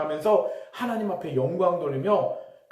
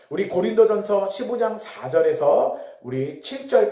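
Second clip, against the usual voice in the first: usual speaking voice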